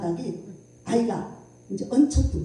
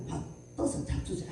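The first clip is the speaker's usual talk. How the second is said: mock whisper; 11 dB quieter than usual. Husband's parting remark retold.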